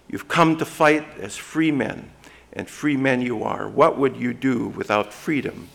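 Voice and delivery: a hint of William Wallace rousing his troops, no accent; loud, lightly voiced battle cry to outnumbered peasants; Braveheart rallying speech. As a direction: read the freedom speech with rising fire, not in a brogue. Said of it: "I wish I could say it in a Scottish brogue, but I'm gonna read it anyways".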